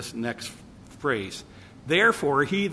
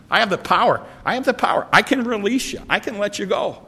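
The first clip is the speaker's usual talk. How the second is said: Pilate's voice rising higher and louder in exasperation; exasperated Pilate; 4 semitones higher, 5 dB louder than usual. Retold or imitated. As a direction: bark out the governor's threats, raised and indignant.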